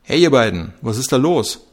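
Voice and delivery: shouting across. Acted. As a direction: yell it across the training ground. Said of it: "schrie Coach Herberger".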